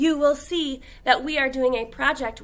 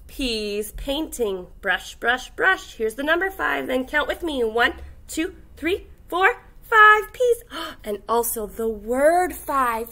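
lively, sing-song picture book read; reading to children; 3 dB louder than usual. Acted. Teacher reading a counting book to kindergartners, animated. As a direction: read it like storytime for little kids.

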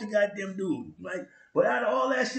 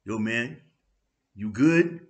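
mocking friends' question; 8 semitones lower, 3 dB louder, slower than usual. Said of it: "what these dumbass fools say".

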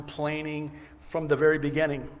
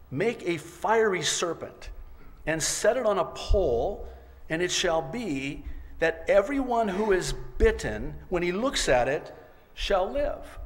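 higher-pitched, measured scripture proclamation; commanding Lord; 5 semitones higher, 3 dB louder than usual. Acted. The Lord instructs Moses in scripture, commanding. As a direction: proclaim it as a divine instruction, phrase by phrase.

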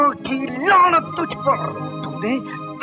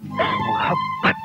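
anguished cry; 3 dB quieter, slower than usual. Acted. Word cried out over music.

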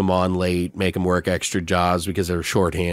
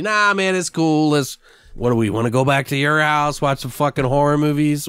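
high, breezy voice; easygoing Eric; 5 semitones higher than usual. Retold or imitated. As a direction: shrug off the club, suggest movies. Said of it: "quoted Eric".

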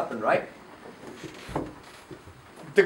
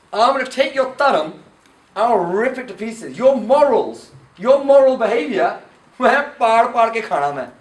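Kal Yug; 2 semitones higher, 3 dB louder than usual. Acted. Kal Yug threatens to destroy morals.

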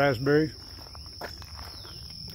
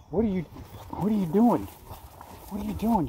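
raised, sing-song voice for the animal; pet talk; 5 semitones higher than usual. Real, not acted. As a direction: tease the critter in a higher playful voice. Talking playfully to the animal.

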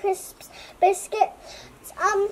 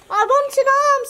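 higher-pitched, mild shout; greedy shout; 6 semitones higher, 4 dB louder than usual. A narrator's reading. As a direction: call out your claim. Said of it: "shouted the cabbage".

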